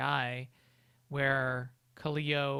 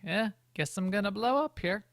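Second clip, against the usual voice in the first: higher, offhand resignation; resigned shrug; 6 semitones higher than usual. Retold or imitated. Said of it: "a look on your face, like".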